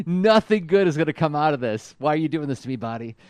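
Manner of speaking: lightly acted dread, pleading as it falls away; imitated fear. Co-host voicing scared Rumble losing control of his body, mock-fearful. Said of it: "you can hear the fear in Rumble's voice".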